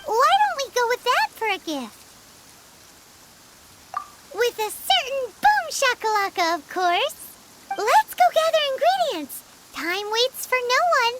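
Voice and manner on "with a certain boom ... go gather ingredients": excited cheer. Acted. Paimon hyping the snack plan.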